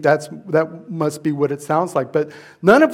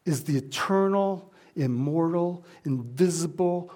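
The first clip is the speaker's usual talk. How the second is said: hushed question; 2 semitones lower, 7 dB quieter than usual. Real, not acted.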